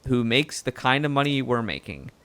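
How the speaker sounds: lightly southern reporter voice, easygoing; southern accent. Acted. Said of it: "now it's going really southern".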